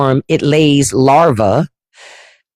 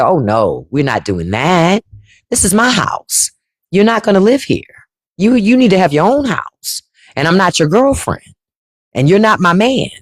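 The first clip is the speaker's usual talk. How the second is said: imitating mother; 2 semitones higher than usual. Mother laying down the law.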